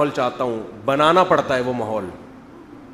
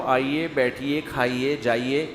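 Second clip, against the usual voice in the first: a softer, courteous inviting tone; polite welcome; 2 semitones lower, 4 dB quieter than usual. Retold or imitated. Husband politely addressing his wife, softly courteous. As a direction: invite a guest gently and politely. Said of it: "تمیز سے بات کر رہا ہو".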